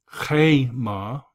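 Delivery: "Chema" with the weight on "Che"; stressed first syllable. Shown as a demonstration. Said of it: "notice the accent".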